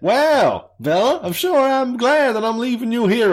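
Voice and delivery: high, loud mock mum voice. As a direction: squeal it out like the ditzy mum.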